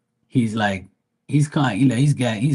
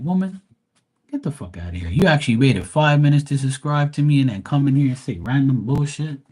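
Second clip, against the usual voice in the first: mock angry rant; 5 semitones higher, 3 dB louder than usual. Ranting at annoying commenter.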